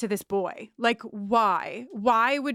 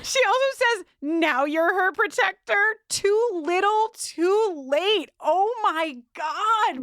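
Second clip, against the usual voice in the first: excited; 11 semitones higher, 4 dB louder, slower than usual. Real, not acted. Squealing outrage at the scene.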